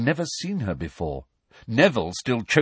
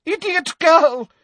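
high, loud exasperated outburst; scornful high-pitched tirade; angry shout; 3 dB louder than usual. A narrator's reading. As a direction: burst out furiously, then scold in a high voice. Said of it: "shouted Umbridge".

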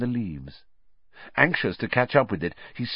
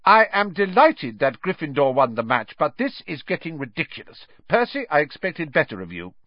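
clipped, raised teacher reproach; stern scolding; 4 semitones higher, 4 dB louder than usual. Acted. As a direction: scold the head boy. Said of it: "stared furiously around".

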